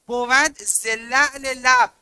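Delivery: لعل لب stretched slowly, rising on لب; slow emphatic recitation. Shown as a demonstration. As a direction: lean on the ezafe in لعل لب. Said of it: "امشب بهتون گفتم".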